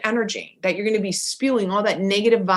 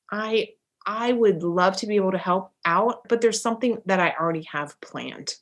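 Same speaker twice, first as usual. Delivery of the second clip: gracious polite refusal; 3 semitones lower than usual. Shown as a demonstration. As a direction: turn her down kindly, no guilt. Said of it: "Here's some ways to say no".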